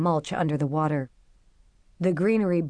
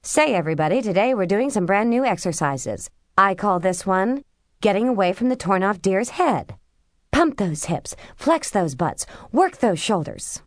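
lightly voiced upbeat workout host; a hint of a cheery aerobics coach; fitness instructor voice; 3 semitones higher than usual. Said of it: "guest of the day on Workout with Wendy".

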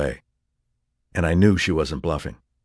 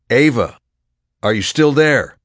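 calling out anxiously; 7 semitones higher, 7 dB louder than usual. Acted. Calling into silent phone.

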